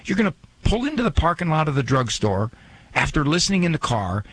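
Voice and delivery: normal talking voice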